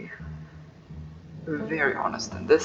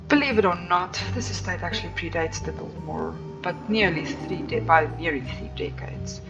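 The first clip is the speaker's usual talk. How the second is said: aloof tour guide. Acted. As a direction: play the snooty estate owner. Streamer voices guide Tabitha.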